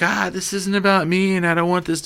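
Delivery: lightly voiced jittery speech; skittish Redford. Redford accepting his award, skittish and nervous.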